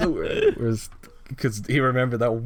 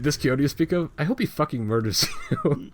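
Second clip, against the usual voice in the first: mock Heimerdinger; 5 semitones higher than usual. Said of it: "Heimerdinger just goes like".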